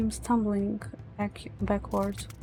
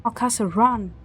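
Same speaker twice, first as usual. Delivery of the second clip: shouted warning; 5 dB louder than usual. Acted.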